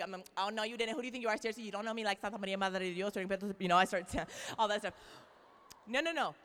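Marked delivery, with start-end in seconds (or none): 0.4-3.1 mock sassy Puerto Rican woman. Speaker mocks getting sassy at Stacy, Puerto Rican style. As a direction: throw some playful Puerto Rican sass. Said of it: "I get all sassy Puerto Rican".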